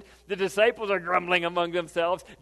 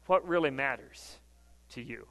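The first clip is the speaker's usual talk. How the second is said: soft, hushed preaching; 6 semitones lower, 5 dB quieter than usual. Acted. Preacher hushing the congregation to a soft, reverent tone. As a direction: drop the voice low and soft, almost confiding. Soft intimate sermon passage.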